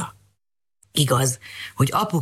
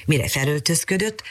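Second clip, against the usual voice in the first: ordinary delivery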